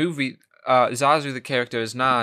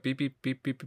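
mock analyzer beeps; 6 dB quieter than usual. Pretends to run the analyzer again.

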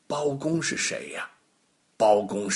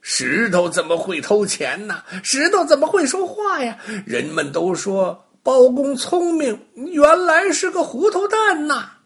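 much higher, laughing, mocking crowd voice; chattering mockery; 12 semitones higher, 5 dB louder than usual. Crowd laughing at Baogong, high mocking chatter. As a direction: onlookers jeering and giggling at the judge. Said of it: "叽叽喳喳地说".

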